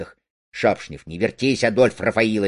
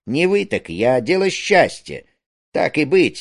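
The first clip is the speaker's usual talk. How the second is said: normal talking voice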